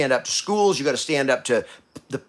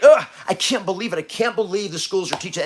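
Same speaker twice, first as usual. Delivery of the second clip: exasperated inner groan; 3 semitones higher than usual. Retold or imitated. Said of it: "you're like".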